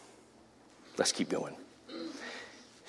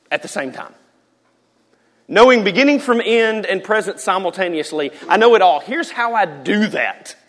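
God's grand voice; 4 semitones higher than usual. Acted. Preacher voicing God to Moses, booming grandly. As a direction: show off the glory like God himself.

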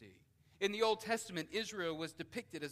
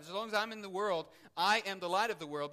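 louder and higher, pressing each word; emphatic proclamation; 5 semitones higher, 12 dB louder, faster than usual. Shown as a demonstration. Preacher repeating Jesus' words to the church, emphatically. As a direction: proclaim it with full force. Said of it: "he emphatically stresses here".

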